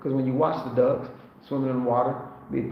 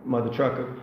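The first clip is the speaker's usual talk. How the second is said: lightly voiced Eddie Murphy line. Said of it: "that was an Eddie Murphy line".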